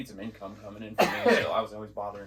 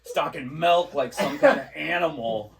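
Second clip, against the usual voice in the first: mock despair; 2 semitones higher, 5 dB louder than usual. Acted despair at working after school.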